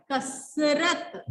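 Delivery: कसरत stretched slowly, falling at the end; slow blended word. Shown as a demonstration. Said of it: "उनको इकट्ठा बोलना है". (कसरत धीरे और नीचे उतरते सुर में)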